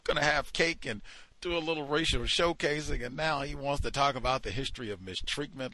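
a touch of mock horror; mock outraged colleagues. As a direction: mimic the offended audience, overplayed. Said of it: "And they said".

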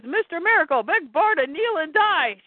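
menacing guard. Acted. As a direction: play a guard issuing a threat, lightly acted. Guard threatens the heroes in fight.

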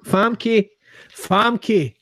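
put-on Russian accent, word by word; clumsy mock Russian accent; attempted Russian accent. Co-host practises the actress's name, trying a Russian accent. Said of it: "I've never done a Russian accent".

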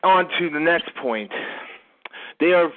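breathless, panting delivery; talking while winded; out of breath. Real, not acted. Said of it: "Why are you breathing so hard?".

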